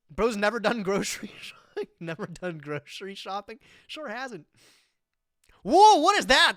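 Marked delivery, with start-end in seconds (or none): 5.6-6.6 loud, high sudden whoa; surprised whoa. Real, not acted. Streamer seeing a strange melon, loud surprised whoa. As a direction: gasp it out at the screen.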